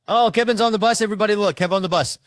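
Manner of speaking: put-on high, loud excited kid shout; hyped shout. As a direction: friends yelling hyped at Kevin. Friends hyped calling out.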